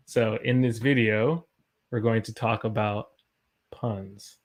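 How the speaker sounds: measured phrases, pausing before the topic; deliberate topic introduction with pauses; imitating Robin. Shown as a demonstration. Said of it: "Robin took some time to say puns".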